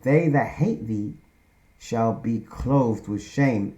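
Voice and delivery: slow, deliberate reading of the verse; slow scripture reading. Shown as a demonstration. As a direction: draw out each word like holy writ. Preacher slowly reads scripture verse.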